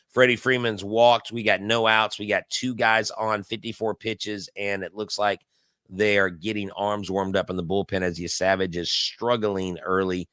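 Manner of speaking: low, steady game call; live play-by-play. Acted. Host calling the ballgame for his stream viewers, steady play-by-play. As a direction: call the inning like a radio booth.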